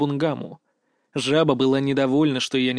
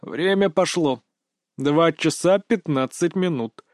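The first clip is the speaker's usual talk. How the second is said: slow, drawn-out creature voice; Bungama the toad; slower than usual. A narrator's reading. Toad familiar reminds her master of the time, slow creature voice. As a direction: draw each word out as the toad. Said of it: "напомнила мне Бунгама".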